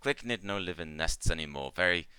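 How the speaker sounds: halting broken English, sinking into mild sadness; Ikmar remembering. Acted. Ikmar telling the party about old nests, mildly sad. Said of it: "she kinda, like, nods and goes".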